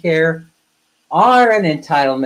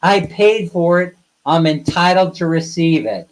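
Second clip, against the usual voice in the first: mock indignant protest; 2 semitones higher, 3 dB louder than usual. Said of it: "the first words out of your mouth would be".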